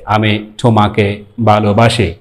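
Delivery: a native English speaker trying Bengali; lightly imitated English accent on ভালোবাসি. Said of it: "English accent".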